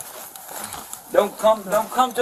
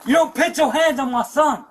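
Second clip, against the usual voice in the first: angry yelling, pitch raised; shouting match; 4 semitones higher, faster than usual. Real, not acted. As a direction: yell at him in a real fury. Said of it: "Quit yelling at each other".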